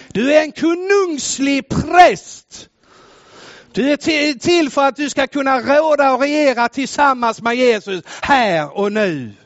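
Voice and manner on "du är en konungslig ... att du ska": shouted declaration. Acted. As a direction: declare it over each listener.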